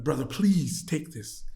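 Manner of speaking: slow, imitated pleading; mild pleading. Bank worker offering him money, mild pleading. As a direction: draw it out as a gentle plea. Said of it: "He begged me to take the money".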